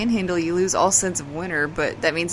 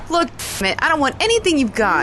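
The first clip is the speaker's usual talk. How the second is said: high, loud angry yell at a pushy visitor; angry shout; 10 semitones higher, 4 dB louder than usual. Acted. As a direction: snap at them through the door to get lost. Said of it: "a quiet quarrel going on".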